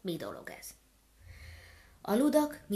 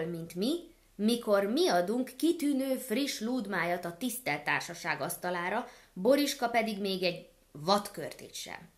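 gander still seething, louder; angry hiss; 4 dB louder than usual. Acted. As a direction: keep hissing with rage.

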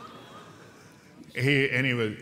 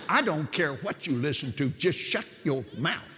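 higher-pitched retold telling-off, slowing at the end; exasperated order; 5 semitones higher than usual. Killer cutting off his captive's request, exasperated. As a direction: act out fed-up silencing, stretching the last words.

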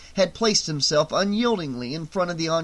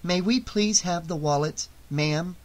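forced calm; 2 semitones higher than usual. Acted. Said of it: "hanging on to her calm".

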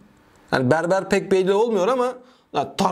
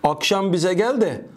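poem recital. Acted. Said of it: "Dur, okuyacağım".

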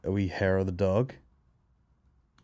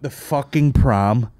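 dismayed groan; 3 semitones higher, 5 dB louder, much slower than usual. Retold or imitated. Discovering the forgotten pram.

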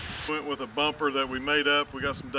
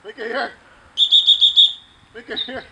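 high coaxing call; 8 semitones higher, 14 dB louder than usual. Real, not acted. Calling puppy back.

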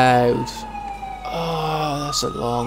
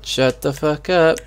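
angry; 3 semitones higher than usual. Acted. Yelling at the heckler.

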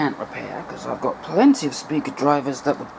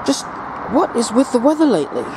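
raised voice against the wind; shouting over wind; 5 semitones higher than usual. Real, not acted. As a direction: speak up over the wind noise. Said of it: "if you can hear me over the wind blowing into the microphone".

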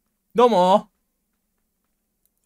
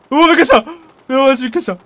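startled; 3 semitones lower, faster than usual. Real, not acted.

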